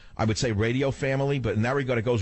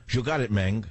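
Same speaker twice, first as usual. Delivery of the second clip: Spanish accent; 2 semitones higher than usual. Shown as a demonstration. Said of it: "practicing my Spanish accent".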